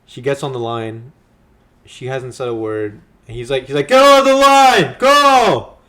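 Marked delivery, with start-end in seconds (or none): 3.9-5.8 high, loud mock order; drawn-out, hammed-up shouted command; imitated yelling. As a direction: bellow it, imitating a man ordering his wife. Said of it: "He's, like, yelling at her".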